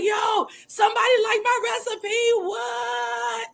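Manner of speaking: high, excited retelling of a fan-out; lightly sung what at the end; mock fangirling. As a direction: replay the squeal over a liked recipe. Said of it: "I fan out every time".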